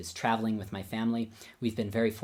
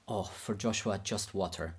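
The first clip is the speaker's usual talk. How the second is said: softer imitated Babayan accent; 5 dB quieter than usual. Teacher resigned to serving water, in imitated Babayan accent. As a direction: let it drop, softly imitating Babayan's accent. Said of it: "I'll do my best Babayan accent".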